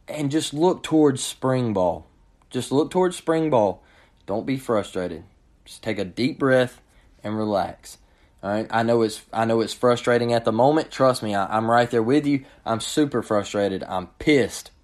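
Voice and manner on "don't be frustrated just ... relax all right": soothing calm. Real, not acted. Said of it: "calming frustrated Auburn fans".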